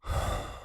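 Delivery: a slow, deep, audible breath. A narrator's reading. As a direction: draw in a deep breath before speaking. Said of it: "Tim takes another deep breath".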